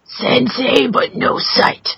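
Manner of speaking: lightly put-on Stick voice, slow lines. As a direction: read the haiku slowly in a hint of Stick's voice. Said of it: "you should do it in your best, uh, stick voice".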